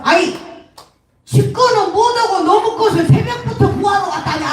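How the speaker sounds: high, indignant Jeolla mother-in-law; scolding Jeolla mother-in-law. Acted. Mother-in-law misunderstands daughter-in-law, high scolding Jeolla dialect. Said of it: "전라도 시어머니가".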